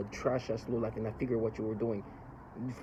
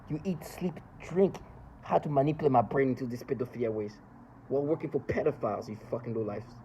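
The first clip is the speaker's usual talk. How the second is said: emotional. Real, not acted. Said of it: "I'm sorry for being emotional".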